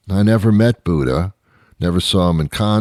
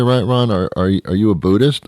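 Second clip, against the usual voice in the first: quizzing friend; 3 semitones higher, faster than usual. Retold or imitated. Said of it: "People say".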